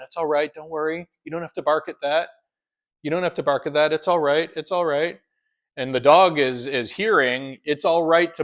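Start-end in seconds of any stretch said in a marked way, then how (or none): 0.0-5.2 lightly cooing to a growling dog; gently reassuring, a bit overdone; mock soothing. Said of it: "We pet the dog to calm it down".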